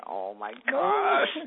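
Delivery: high, drawn-out mock wail of dread. Author retelling her reaction to priest's message, mock dread. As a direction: stretch it into a high, anxious groan.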